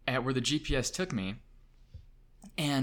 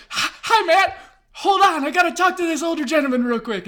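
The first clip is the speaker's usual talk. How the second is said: high, loud, rushed stammer; flustered excitement; 10 dB louder than usual. Retold or imitated. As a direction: put your idol on hold in a panic. Flustered phone talk with his idol.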